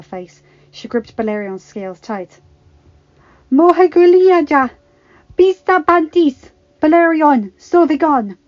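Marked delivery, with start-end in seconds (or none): 3.5-8.4 high, full-voiced battle shout; enraged command. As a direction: roar orders at a dragon in fury. Enraged dragon rider commands her dragon.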